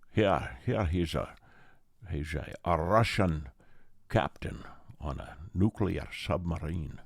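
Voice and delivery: lightly put-on Scottish accent; a hint of slushy Connery brogue; Sean Connery. Comic showing the actor playing a Russian captain, light Scottish accent. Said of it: "Sounds a little Scottish to me".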